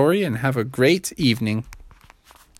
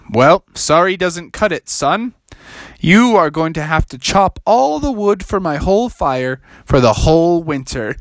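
punishing the frog; stern wizard; 3 semitones higher than usual. Acted. Wizard scolds.

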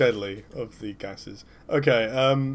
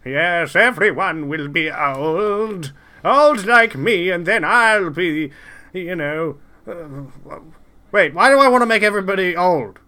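put-on old villain rant; 6 semitones higher, 9 dB louder than usual. Jack Klompus ranting in the gassed car, a high cranky old man shrieking. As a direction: rant like a doddering old villain losing the plot.

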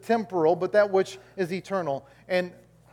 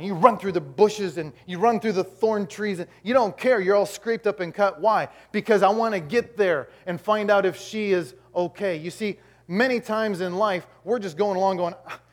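raised, driving sermon delivery; impassioned preaching; 3 semitones higher, 5 dB louder than usual. Real, not acted. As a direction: press the congregation with urgent conviction. Preaches with rising force.

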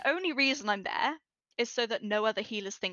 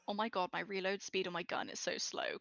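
deadpan; 6 dB quieter than usual. Retold or imitated. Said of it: "When they say it deadpan".

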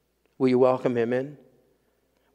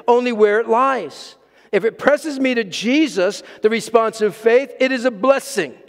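impassioned quoted saying; 7 semitones higher, 5 dB louder than usual. Acted. Pastor quoting Hudson Taylor to the congregation, fervent recitation. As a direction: proclaim the quote, then let the last line sink. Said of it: "Hudson Taylor said it this way".

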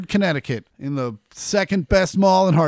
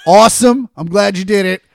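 loud laughing fake enthusiasm; mock cheer; 3 semitones higher, 8 dB louder than usual. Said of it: "I'm like".

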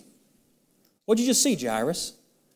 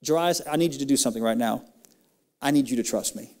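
loving, sweet; faster than usual. Acted. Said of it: "so lovingly and sweetly just says".

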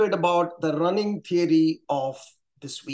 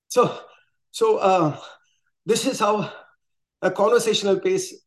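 out of breath. Shown as a demonstration. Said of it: "my heart is pounding".

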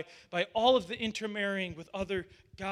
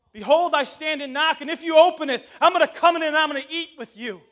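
higher, louder, "Behold" lifted with a rising end; fervent repeat of the verse; excited proclamation; 7 semitones higher, 13 dB louder than usual. Acted. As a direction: build the verse with joy, a laugh breaking in. Preacher repeats verse, building.

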